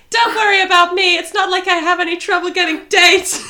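loud, high ditzy socialite voice; Paris Hilton. Retold or imitated. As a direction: brag like a spoiled socialite. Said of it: "And Paris Hilton's like".

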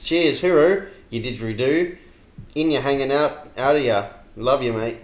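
lightly broad Aussie bogan; easy bogan reading of matey sign-offs; bogan accent. Acted. Taking over the comment in bogan style. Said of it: "read it out to you in true Bogan style".

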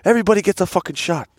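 high, quick mock proclamation; rowdy bar announcement. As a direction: announce a round to the whole bar, imitating. Acting out McGregor treating the bar.

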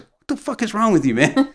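high, laughing outrage; half-laughing, stunned; laughing disbelief. Retold or imitated. Friend overpaying, met with high laughing outrage.

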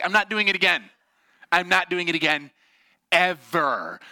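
loud, high, emphatic refusal; mock angry refusal. Brother refusing his sisters after second fall, mock angry refusal. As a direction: refuse like a fed-up little brother.

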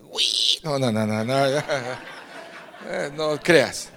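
laughing through a string of no's. Real, not acted. Nephew laughing off his aunt's jab. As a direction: chuckle the denial away.

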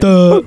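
harsh error buzz. Shown as a demonstration. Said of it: "I'll go".

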